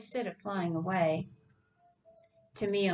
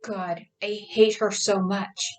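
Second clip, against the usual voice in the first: louder, seething with rage; burning rage; 5 dB louder than usual. Acted. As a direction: spit out pure hatred. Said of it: "Her voice changed to a pitch of burning rage".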